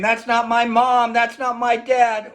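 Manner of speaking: half-voiced reminder of the shout; mild demo scream. Shown as a demonstration. Teacher briefly recalls what kids should scream, a mild shout. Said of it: "You're gonna scream".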